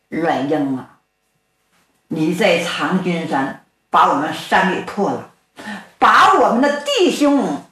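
a storyteller lightly voicing a vengeful bandit, pitch jumping up on threats. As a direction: lightly play the bandit sneering out his revenge. Villain confronts Ruan Ying. (说书人略带起伏地扮演复仇的强盗)

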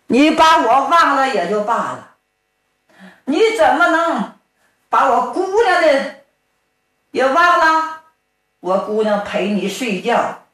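a hint of an aggrieved old father-in-law berating his son-in-law; scolding old father-in-law. Old father-in-law scolds the son-in-law who forgot his daughter, mildly voiced.

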